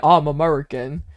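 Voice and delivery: lightly hammed-up American twang with a yeehaw; mock American accent. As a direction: play up being American for a joke. Playing up American after chat comment.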